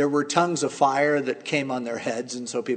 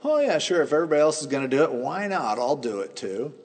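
mock casual. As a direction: toss it off like a bandwagon joiner. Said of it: "kind of like".

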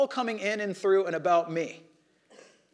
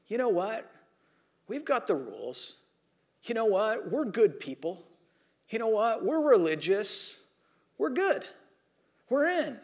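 pat yourself on the back; mild mock self-righteous voice; smug Pharisees; 3 semitones higher than usual. Pharisees thinking they're good.

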